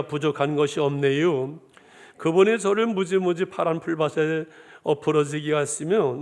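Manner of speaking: lightly voiced Chungcheong dialect, easygoing reading. Pastor reads Psalm 23 to the congregation in a light Chungcheong dialect. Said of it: "충청도 버전입니다".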